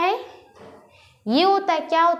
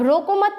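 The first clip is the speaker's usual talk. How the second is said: "रोको मत" as one higher phrase; pause after मत; 7 semitones higher than usual. Shown as a demonstration. Teacher points out the comma, stopping after "मत". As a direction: keep "रोको मत" together, stop after "मत". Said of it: "पे रुका इसने".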